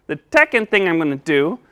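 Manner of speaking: "second" pronounced "teckond". Pretend. Puppet listing steps, "second" begun with a T. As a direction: begin "second" with a T, not S. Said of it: "help you say your S".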